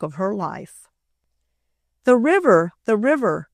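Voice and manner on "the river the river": louder, higher alarm call. A narrator's reading. Boys shouting about the river, loud. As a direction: shout a warning. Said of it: "called the boys".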